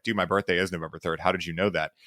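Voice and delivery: low, soft imitation of a dumbstruck man; quietly acted shock; stunned deer in headlights. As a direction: retell it hushed, as if caught in headlights. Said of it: "like a deer in headlights".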